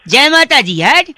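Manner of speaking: loud festive cry; shout. Pretend. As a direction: call out the chant. Chanting Navratri slogan.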